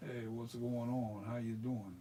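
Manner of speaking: drawn-out Philadelphia greeting; slow, casual Philly accent. Shown as a demonstration. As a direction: greet them like a Philly local, taking it slow. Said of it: "That's Philadelphia".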